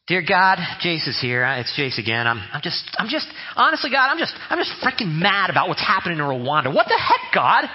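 blunt casual prayer. Retold or imitated. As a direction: gripe at God like a frustrated buddy. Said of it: "down-to-earth prayers".

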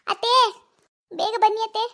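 loud, high call for her mother-in-law; daughter-in-law in labour shouting for her mother-in-law, loud and pleading. Acted. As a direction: call out desperately for help. Labouring woman calls for help.

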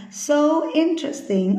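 "interesting" said slowly, stressed on IN; stress on first syllable. Shown as a demonstration. Teacher models the first-syllable stress for students, slow stressed "interesting". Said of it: "âm tiết số một nhá".

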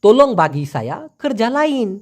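"তোলং বাগি সায়া কর জালাইন" with a Malaysian accent; Malaysian উচ্চারণে. Shown as a demonstration. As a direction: model the Malay phrase the way locals say it. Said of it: "মালয়েশিয়ানরা ঠিক এভাবে বলে".

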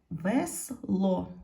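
"Весло" split into вес and ло, о stressed; "Весло" in two parts, weight on the last; stress on second syllable. Shown as a demonstration. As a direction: sound out "Весло" with the beat on ло. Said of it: "наголос падає на".

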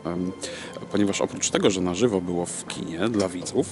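usual speaking voice

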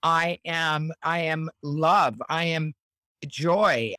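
slow, deliberate self-affirmations. Shown as a demonstration. Countess giving affirmations slowly and calmly. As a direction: state each one slowly as a truth. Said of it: "Give me a quick, your, one of your favorite affirmations".

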